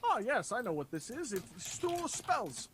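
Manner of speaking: a hint of an in-game expert; knowing NPC. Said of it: "He holds it and goes".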